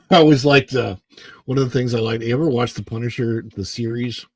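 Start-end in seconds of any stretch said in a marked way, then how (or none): 1.4-4.2 hoarse morning throat; rough, unwarmed morning voice. Real, not acted. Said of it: "my morning voice is just what it is".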